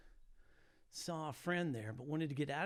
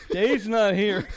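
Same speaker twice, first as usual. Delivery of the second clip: put-on slow, loud, higher kid's voice; mimicking a kid; 6 semitones higher, 16 dB louder, much slower than usual. Twelve-year-old boy answering the phone, slow, loud and higher. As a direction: drag out Dave's not here like a twelve-year-old. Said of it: "And he goes".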